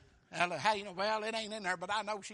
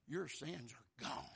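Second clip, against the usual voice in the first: softer, lower and slow; soft Jesus voice; 5 semitones lower, 8 dB quieter, slower than usual. Acted. Jesus tells the sinful woman her sins are gone, softly. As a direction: gently tell her, quietly. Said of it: "and he said".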